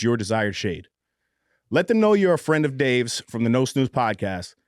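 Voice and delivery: polished podcast ad read; sponsor ad read. Acted. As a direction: read the sponsor spot, emphasis on key selling words.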